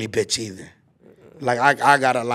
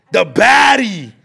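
laughing shout; 6 semitones higher, 6 dB louder, much slower than usual. Real, not acted. Excited shout recalling the girl.

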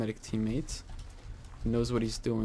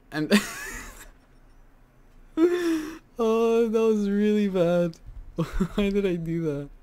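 embarrassed laughter; 9 semitones higher, 5 dB louder than usual. Real, not acted. Laughing at own mistake.

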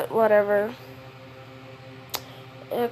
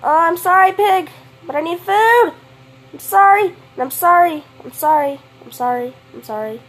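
apologetic; 4 semitones higher, 4 dB louder than usual. Acted. Apologizing to pig she kills.

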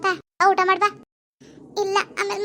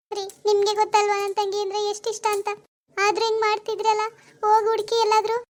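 anxious, slightly raised wifely plea; begging through tears; tearful pleading; 3 semitones higher than usual. Acted. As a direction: plead with husband to search for sister. Wife begs husband to search.

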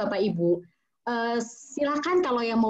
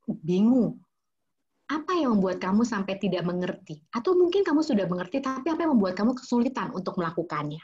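steady, serious, disappointed mother; be firm without raising your voice; firm but calm; 2 semitones lower than usual. Shown as a demonstration. Mother confronting a child who ignored her three times, firm. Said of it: "dengan suara yang firm".

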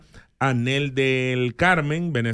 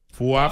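swoosh sound effect. Shown as a demonstration. Mimes money vanishing after "guess.

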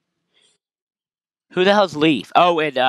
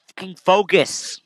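frustrated slow snap; 6 semitones higher, slower than usual. Real, not acted. Yelling at camera.

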